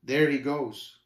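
understated disappointment; a bit sad. Acted. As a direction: let it go with mild regret. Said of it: "a bit sadly".

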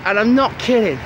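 calling over a snow shower. Real, not acted. Vlogging outdoors in heavy snow.

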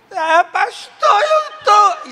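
a loud, high wailing cry, slow on pastor. Retold or imitated. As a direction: burst out sobbing and confess. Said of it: "E saiu correndo pro banheiro".

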